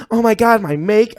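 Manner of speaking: first, toned-down try at the outburst; not quite how it was said. Retold or imitated. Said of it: "I didn't even say it like that".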